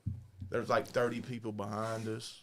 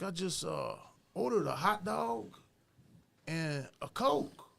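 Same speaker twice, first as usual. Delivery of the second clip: Weasel voice; 9 semitones higher than usual. Retold or imitated. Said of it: "it'll have the voice in it for you".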